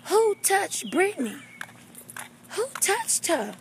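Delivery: high, alarmed demand; blowing up. Acted. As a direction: demand to know who did it. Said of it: "I blew that bathroom up".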